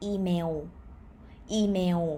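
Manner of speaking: "email" as ee-mew, final w; Thai pronunciation. Shown as a demonstration. Teacher showing the correct Thai word, w-ending pronunciation. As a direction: round the end of "email" into a w. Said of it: "you will hear the word".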